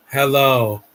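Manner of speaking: lightly mocking a dull villain voice; slow, drawn-out imitation of a boring delivery; Star Sapphire. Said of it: "that is the worst voice in this movie".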